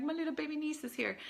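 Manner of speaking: overwhelmed by her niece's presence; tearful. Real, not acted. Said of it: "You can tell I'm, like, tearing up".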